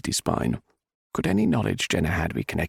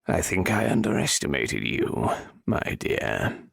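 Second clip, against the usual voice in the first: sinister nobleman; 2 semitones lower, slower than usual. Acted. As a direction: let the threat creep in. Viscount turns sinister.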